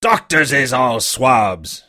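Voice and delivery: put-on sick old sailor cursing weakly; feeble but hearty. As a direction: curse him feebly but with gusto. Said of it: "in a feeble voice but heartily".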